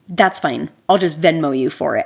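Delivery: rude dad. Retold or imitated. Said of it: "he's being so rude".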